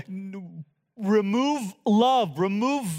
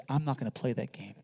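much softer, tender version of the line; soft, gentle Jesus; 9 semitones lower, 9 dB quieter than usual. Acted. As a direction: say it gently, almost a hush. Same line said softly later.

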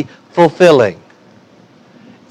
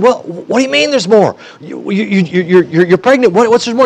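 flustered husband; 4 semitones higher than usual. Acted. Flustered husband questions his wife.

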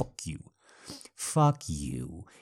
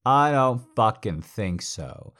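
angry; 4 semitones higher, 7 dB louder than usual. Acted. Angry dominant rebuff.

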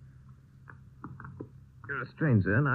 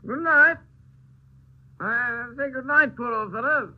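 put-on drunk; 5 semitones higher than usual. Drunk man accosting a stranger.

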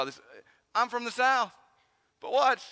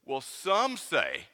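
evasive hedge; much slower than usual. Retold or imitated. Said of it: "passive roundabout approach".

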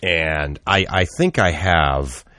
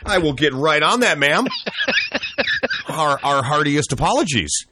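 much higher, fawning apologetic voice; mock groveling server; 10 semitones higher than usual. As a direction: overdo the humble waiter. Mock servile employee continues.

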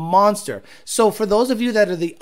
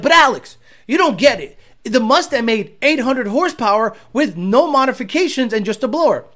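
mocking skeptic; 4 semitones higher than usual. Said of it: "a lot of people are like".

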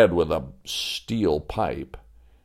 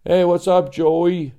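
a hint of a hearty woodsman, louder; cheery lumberjack; 8 semitones higher, 4 dB louder than usual. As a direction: friendly call down from below.

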